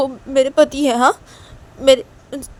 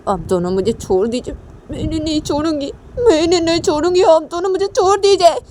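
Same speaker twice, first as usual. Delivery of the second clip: pleading to be let go; 3 semitones higher than usual. Acted. Uma struggles against sisters-in-law.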